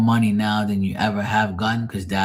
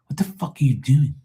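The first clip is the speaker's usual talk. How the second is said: higher-pitched, exasperated retold scolding; 5 semitones higher than usual. Son scolding mom in the store, exasperated. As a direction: scold in disbelief, pitch lifted.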